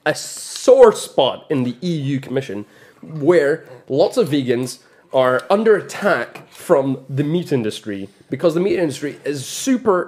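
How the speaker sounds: deliberate, stretched announcer delivery; put-on advertising voice. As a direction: present it like an advert. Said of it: "Why are you putting on a voice when you're doing this?".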